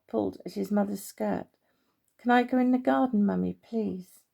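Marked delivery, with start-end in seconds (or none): 2.2-4.2 put-on a small boy tugging at mum, asking fast; pleading child. Little Mark begs his mother.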